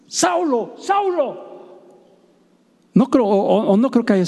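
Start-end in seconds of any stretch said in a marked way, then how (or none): 0.1-1.4 much higher and softer, a thin calling voice from above; imagined heavenly voice. Pretend. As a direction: call the name high and soft, drawn out. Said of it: "tremebunda, o sea, imagínate".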